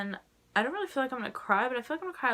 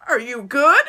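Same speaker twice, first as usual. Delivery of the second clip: concerned friends; 4 semitones higher, 14 dB louder than usual. Retold or imitated. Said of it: "everyone turns to me like".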